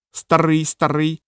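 lightly voiced parrot, eager; a hint of a keen parrot. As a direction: chirp it back readily. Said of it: "з готовністю відгукнувся папуга".

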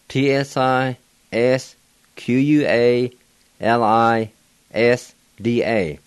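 slow letter-by-letter spelling; spelled out letter by letter. Shown as a demonstration. Teacher spelling out a bird name for learners, slow and deliberate. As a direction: spell each Cherokee letter slowly. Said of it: "and it's spelled".

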